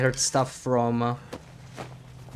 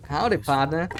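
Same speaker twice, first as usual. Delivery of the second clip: cowboy howdy; 3 semitones higher than usual. Shown as a demonstration. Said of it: "That's my best approximation of the".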